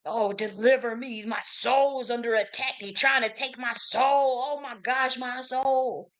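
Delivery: slow, overdone plea for deliverance; mock pleading psalmist. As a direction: ham up a desperate cry to God. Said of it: "talking like that".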